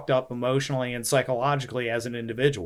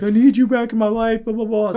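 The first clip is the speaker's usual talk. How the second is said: higher, mock-pleading mom voice, then trailing off into blah blah; a hammed-up needy mother begging her son home; imitating mom; 8 semitones higher, 6 dB louder than usual. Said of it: "my mom was like".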